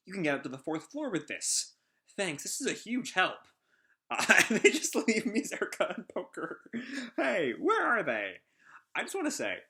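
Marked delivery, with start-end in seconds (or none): 2.2-8.3 higher, louder voiced character lines. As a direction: read the panel dialogue in character. Voicing manga characters' dialogue.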